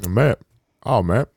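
casual Yorkshire "mate", rising. Shown as a demonstration. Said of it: "That's how I say mate".

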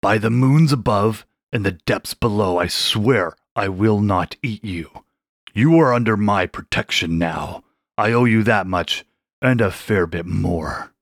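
put-on an old shark swearing an oath; solemn shark oath.

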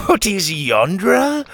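high, loud, slow disbelief; incredulous laugh. A narrator's reading. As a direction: scoff at such ignorance. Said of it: "he laughed".

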